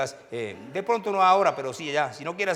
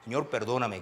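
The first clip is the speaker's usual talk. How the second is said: retold weeping plea; 3 semitones lower, 5 dB quieter than usual. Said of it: "Lloraba, Señor".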